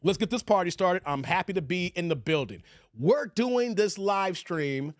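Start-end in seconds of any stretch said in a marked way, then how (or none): 3.0-4.9 slow, drawn-out intro; show announcer. Pretend. Host opening the live stream, slow announcer delivery.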